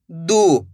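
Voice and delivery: दू with a long oo, dropping in pitch; sustained, falling दू; drawn-out vowel. Shown as a demonstration. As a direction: stretch the vowel of दू. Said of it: "खींच के पढ़ा जाता है".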